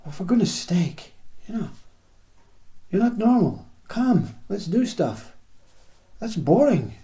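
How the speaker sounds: the impatient voice of the mind pulling you back into busyness; nagging mind. Retold or imitated. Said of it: "and say".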